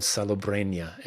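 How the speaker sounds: authentic Spanish pronunciation of the town; name the town with a real Spanish accent; Castilian Spanish accent. Real, not acted. Guest recalling a little town in Spain, Spanish accent. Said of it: "Spanish accent was, was really spot on".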